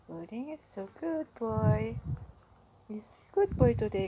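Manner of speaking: loud happy praise; praising pet. Real, not acted. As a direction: cheer the bunny on.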